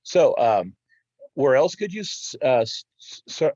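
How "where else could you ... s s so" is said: stumbling, stuttering restart. Real, not acted. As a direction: trip over the words. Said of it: "sorry about stuttering".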